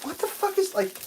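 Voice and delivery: mock outrage. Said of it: "I was like".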